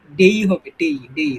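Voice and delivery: ডে as "dey", gliding to a y; ডে drawn into "dey"; full "dey" ending. Shown as a demonstration. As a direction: say ডে with a clear ei glide. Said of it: "এটার উচ্চারণ আমরা ডে".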